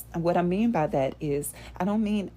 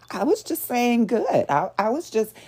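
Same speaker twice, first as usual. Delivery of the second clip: mock defensive; 5 semitones higher, 4 dB louder than usual. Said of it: "they can't be honest about their intention".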